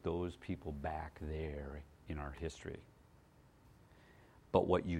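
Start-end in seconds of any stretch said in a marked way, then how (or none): 0.0-2.8 hushed, breathy whisper; voiceless stage whisper. Real, not acted. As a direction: drop to a secret whisper for effect. Preacher drops to dramatic whisper.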